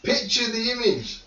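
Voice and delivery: high, loud exclaim; excited shout. Real, not acted. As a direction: shout it out, protesting. GM insisting loudly.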